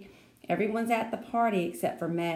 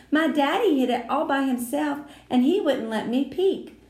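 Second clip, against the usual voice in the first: put-on high, louder pleading girl voice; worried girl; 6 semitones higher, 5 dB louder than usual. A narrator's reading. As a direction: ask it anxiously, needing reassurance. Lucille anxious questioning.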